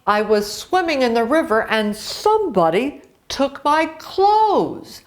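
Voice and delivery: lively storybook read-aloud with character voices; reading to children. A narrator's reading. Teacher reading a folktale to young pupils, lively. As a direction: tell the tale brightly to a class.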